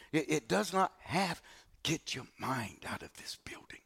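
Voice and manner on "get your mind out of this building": sudden unvoiced whisper, much lower and softer. Real, not acted. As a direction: lean in and whisper it like a secret. Preacher drops to a secret whisper.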